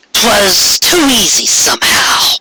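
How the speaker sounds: slow whispered doubt; suspicious whisper. Acted. Corona doubting Trixie's bow, slow whisper. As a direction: breathe the suspicion slowly.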